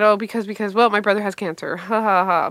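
stammering start into an awkward little laugh; nervous. Retold or imitated. Comic admitting brother's illness to audience, re-enacted nervous blurting. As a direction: stumble on the reason, then tack on a nervous laugh. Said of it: "I got very nervous".

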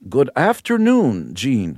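slow, prim radio-host greeting; a hint of a sixth grade teacher; mock NPR host. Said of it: "It always sounds like a sixth grade school teacher".

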